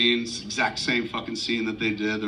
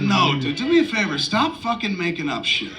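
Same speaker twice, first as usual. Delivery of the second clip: mock scolding; 5 semitones higher than usual. Retold argument with actor.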